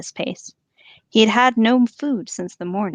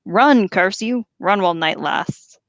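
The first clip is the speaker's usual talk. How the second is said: angry orc. Acted. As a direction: curse them like an angry sergeant. Orc Ugluk berating troops.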